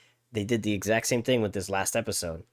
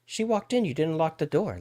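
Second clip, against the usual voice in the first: mock excuse; 5 semitones higher than usual. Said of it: "It's like".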